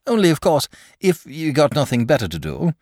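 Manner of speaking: high, lilting courteous afterthought; polite. A narrator's reading. Dragon softens his dinner invitation, polite. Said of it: "he added politely".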